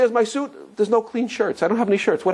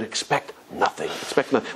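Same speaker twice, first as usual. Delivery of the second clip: quiet reassurance; 6 semitones lower, 6 dB quieter than usual. Retold or imitated. Father calming his crying kids, soft and low. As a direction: hush them gently with the lesson.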